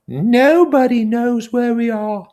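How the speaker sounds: put-on very high, slow, fussy boy voice; Piggy scolding. Piggy telling the boys off for hindering Ralph, high and fussy. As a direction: nag them about what matters.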